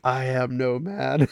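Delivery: slow, lightly voiced defiant shieldmaiden; a hint of Eowyn's proud declaration, said slowly. Imitating Eowyn answering she's no man, slow and proud. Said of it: "picturing Eowyn from Lord of the Rings".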